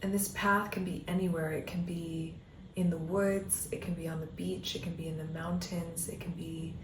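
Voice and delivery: calm meditation guiding with long pauses; guided meditation. Acted. Coach leading listeners down an imagined path, guided meditation voice. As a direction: guide them gently inward, leaving space between phrases.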